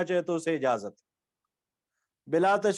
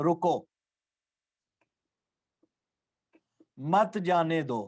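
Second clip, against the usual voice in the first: رکو, long pause, then مت جانے دو lower; pause after رکو; 3 semitones lower, slower than usual. Shown as a demonstration. Teacher gives an Urdu example, pausing long after رکو. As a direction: stop fully on رکو before saying مت جانے دو. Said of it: "اگر ہم رکو پہ رکیں گے".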